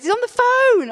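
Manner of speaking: very high, loud call; shouting. Retold or imitated. Brother yelling up the stairs about the phone call. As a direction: yell it up the stairs.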